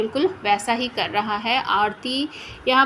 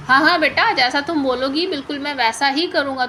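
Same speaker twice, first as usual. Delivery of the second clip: eager agreement; 3 semitones higher, 3 dB louder than usual. Retold or imitated. Raghav hastily agrees to her terms.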